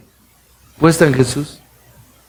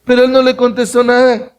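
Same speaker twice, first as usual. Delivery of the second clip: "no" lifted high and stressed, whole line higher; 8 semitones higher than usual. Shown as a demonstration. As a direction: hit "no" to show Jesus kept silent. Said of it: "Pero mira que dice".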